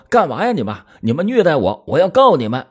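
high-pitched, narrated cry of protest. A narrator's reading. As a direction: act out a suspect's frantic yell, pitched well up. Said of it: "他就狂叫着说". (高声狂叫着抗议)

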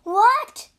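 high, loud, astonished question; shocked cry. A narrator's reading. Tang monk hearing the tree was felled, shocked cry. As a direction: exclaim in disbelief. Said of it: "cried the Tang monk".

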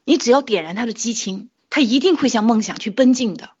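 retold plea with a touch of fervour, slightly lifted pitch; joyful passion. Proud mother appealing to her child's teacher, mildly impassioned. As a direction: re-enact proud, hopeful urging. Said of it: "那么喜悦，那么激情地说起自己的孩子".

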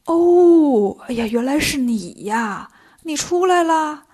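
a drawn-out "oh" of realisation, voiced for an old man; mildly amazed recognition, stretched at the end; dawning recognition. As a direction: suddenly place an old acquaintance. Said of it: "老爷爷这才想起来".

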